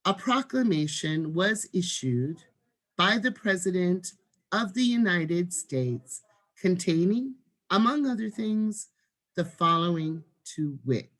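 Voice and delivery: measured official proclamation; deliberate script reading; formal demonstration reading. Shown as a demonstration. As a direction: pause between phrases and punch key words. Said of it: "go ahead and read this first line".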